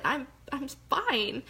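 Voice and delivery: breaking down. Retold or imitated. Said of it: "just crying".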